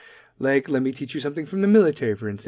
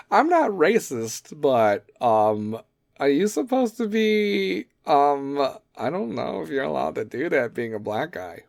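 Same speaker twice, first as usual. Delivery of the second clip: mock racist; slower than usual. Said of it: "be like".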